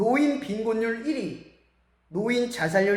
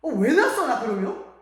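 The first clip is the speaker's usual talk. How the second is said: put-on child talking back; 3 semitones higher, 4 dB louder than usual.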